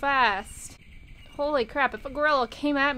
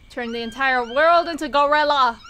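mock rallying cry; 6 dB louder than usual. Declaring game mission.

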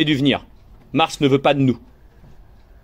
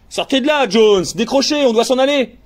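higher urgent crewman's order; urgent call; 6 semitones higher than usual. Acted. Crewman urging Jones away from the well, urgent call. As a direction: call out to get him moving.

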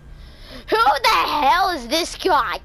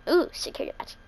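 whispered delight; 2 semitones higher, 5 dB quieter, much faster than usual. Real, not acted. Spots item, hushed.

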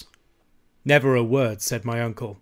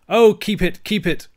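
high, loud pleading wail; pitched-up Scots plea; 9 semitones higher, 8 dB louder than usual. A narrator's reading. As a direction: wail it as the frightened old uncle. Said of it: "wailed my uncle".

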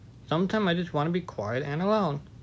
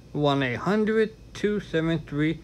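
infomercial voice; slower than usual. Pretend. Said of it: "I sound like an infomercial right now".

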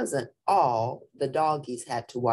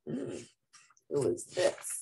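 whispered question; 8 dB quieter than usual. Acted. Character wakes in cage.

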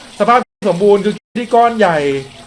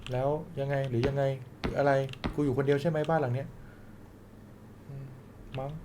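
sleepy murmur; 5 semitones lower, 15 dB quieter than usual. Acted. Sleepy gamer going to bed.

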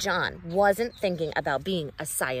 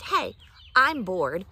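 slow bored kitten; 6 dB louder, slower than usual. Acted. Kitten voiced saying he's bored.

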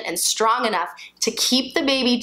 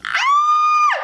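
very high, loud scream; pushing scream; 6 dB louder than usual. Pretend. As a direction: scream at the peak of the push. Mock labor climax.

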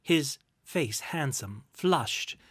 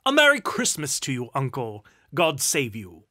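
cheerful cry; 9 dB louder than usual. A narrator's reading. Nephew greeting his uncle at Christmas, cheerful cry. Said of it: "a voice cheerfully cried out".

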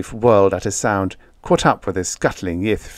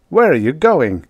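higher, louder questioning call; raised-voice challenge; 6 semitones higher, 5 dB louder than usual. A narrator's reading. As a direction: call after someone leaving. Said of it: "Retief called".

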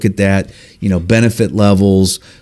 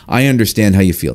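quick, pat show of understanding; wrong way to empathize. Shown as a demonstration. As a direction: rattle off the sympathy without pausing. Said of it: "we don't wanna say it like that".

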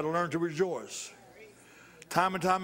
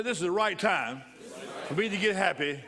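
call and response line. Shown as a demonstration. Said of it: "Everybody say".

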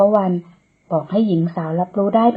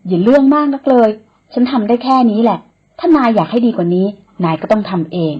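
louder, higher squabbling back and forth; bickering; 4 semitones higher, 5 dB louder than usual. Acted. Woman and man bicker over the wound, heated. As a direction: argue back without backing down.

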